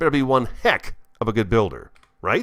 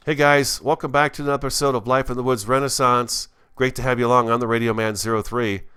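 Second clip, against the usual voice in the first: louder, higher hammed-up DJ intro; cheesy radio host; 4 semitones higher, 4 dB louder than usual. Host mocking his own intro as a cheesy radio announcer. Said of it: "Somebody get him out of here".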